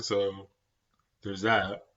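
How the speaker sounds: talking through a yawn; words stretched by a yawn. Real, not acted. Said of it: "I'm sorry for yawning".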